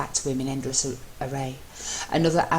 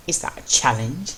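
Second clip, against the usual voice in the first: calm and steady. Acted. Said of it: "calm and steady".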